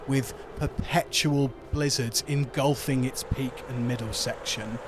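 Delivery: measured storyteller narration; game master's scene setting. Acted. Game master describing the snowy resort to players, scene-setting narration. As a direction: paint the scene in a steady, deliberate narrating voice.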